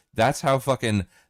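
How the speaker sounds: ordinary talk, nothing marked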